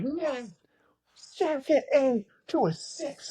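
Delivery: high, breathless whisper, slow on the numbers; whispered tip. Retold or imitated. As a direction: hiss the answer up to the stage. Teammates mouthing the number from crowd.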